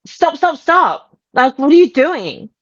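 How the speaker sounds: high, quick-fire mock alarm; urgent retold protest. Telling partner to stop banging out dents, retold urgent protest.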